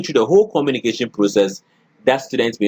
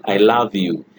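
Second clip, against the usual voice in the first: calm, lower "I love you"; low pitch; 3 semitones lower, slower than usual. Shown as a demonstration. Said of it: "we go to a low pitch".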